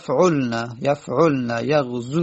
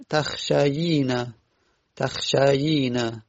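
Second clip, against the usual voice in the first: تخشیین drawn out slowly, syllables separated; slow down on تخشیین so they hear both یا; slow demonstration; much slower than usual. Shown as a demonstration. (تخشیین را آهسته و شمرده بگو)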